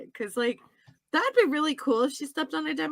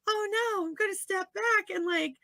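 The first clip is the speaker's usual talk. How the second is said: higher, lightly voiced oh-no; mock dismay; 4 semitones higher, 5 dB quieter than usual. Host acting out Nancy stepping back, mock dismay. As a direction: play a hapless little panic. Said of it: "she's like".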